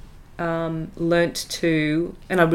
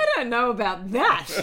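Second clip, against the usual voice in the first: said through a laugh, higher; 7 semitones higher than usual. Real, not acted. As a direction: chuckle the line out. Laughing at the Uranus joke.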